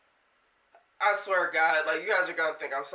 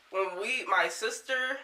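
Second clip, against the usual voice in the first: halting, broken false starts; shaken stutter; 2 semitones higher than usual. Real, not acted. Storyteller shook from telling the demon story, stuttering. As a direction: stumble over the words, stopping short. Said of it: "I'm stuttering".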